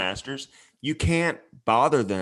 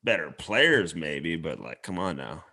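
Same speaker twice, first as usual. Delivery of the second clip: imitating Dukes; 6 semitones lower than usual. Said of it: "Dukes is like".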